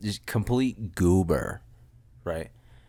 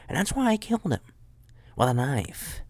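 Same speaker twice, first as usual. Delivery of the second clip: mock dramatic reveal; 6 semitones higher than usual. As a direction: blurt out the fake confession. Punchline of joking confession.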